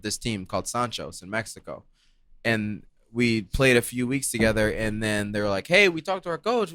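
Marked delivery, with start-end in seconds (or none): 5.7-6.7 lightly imitated Spanish accent. Retelling how teammates invited him to the team, Spanish accent. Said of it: "then you started the normal one".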